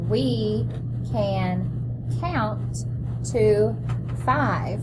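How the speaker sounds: reading along word by word; choral read-along. Shown as a demonstration. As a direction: read it together with the children. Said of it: "Let's read that together".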